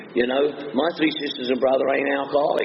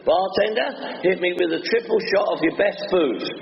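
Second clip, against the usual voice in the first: mock plea to bartender; 3 semitones higher than usual. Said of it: "saying to the bartender".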